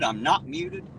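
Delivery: high-pitched protest; incredulous insistence. Real, not acted. Streamer protesting to chat that he is not muted, incredulous. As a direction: insist in disbelief.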